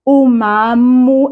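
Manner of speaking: "Umamu" with the final vowel clipped; final a of "Umamu" swallowed, slow; dropped last vowel. Shown as a demonstration. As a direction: run "Umamu" straight into the next word. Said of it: "I just simply said".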